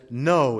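a firm, flat "No." spoken as Paul's answer; an emphatic "No", said once. Acted. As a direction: put a full stop on "No.". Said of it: "It's an emphatic no".

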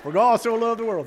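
loud, high mock Hillbilly accent. Shown as a demonstration. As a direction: show him how Hillbilly sounds, hammed up. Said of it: "Stick to what you know".

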